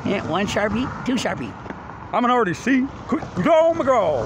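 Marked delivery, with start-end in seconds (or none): 3.1-4.3 sudden high, loud call to hurry; urgent shout. Real, not acted. Hurrying a friend along, urgent shout. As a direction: yell it like someone must move now.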